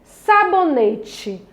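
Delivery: Sabonete drawn out slowly, syllable by syllable, last syllable leaned on. Shown as a demonstration. Teacher sounding out a word for children, slow and syllabic. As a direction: spell out sabonete slowly by ear, stressing the end. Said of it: "Quando eu vou falar sabonete".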